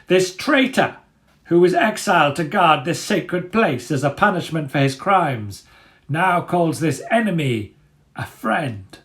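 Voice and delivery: proud, sneering leader addressing the crowd; Dagger's voice. A narrator's reading. Dagger denouncing the rat.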